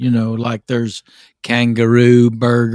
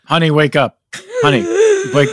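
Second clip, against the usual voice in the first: urgently shaking someone awake; urgent waking call; 9 semitones higher, 4 dB louder, faster than usual. Acted. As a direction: call him out of a nightmare. Wife waking thrashing husband.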